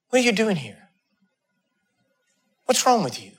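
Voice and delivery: soft, quiet voice of God; hushed and intimate, barely spoken; still small voice. Acted. Preacher voicing God's still small voice, softly. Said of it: "a still small voice".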